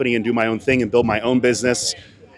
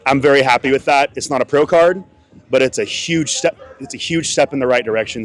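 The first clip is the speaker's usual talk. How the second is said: talking through hiccups; hiccuping. Real, not acted. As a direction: hiccups breaking the words. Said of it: "Sorry, I keep hiccuping".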